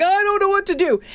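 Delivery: high, wailing "I don't know what to do"; distressed whine. Retold or imitated. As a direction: whine it out in high despair, half-mocking yourself. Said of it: "the next one, like".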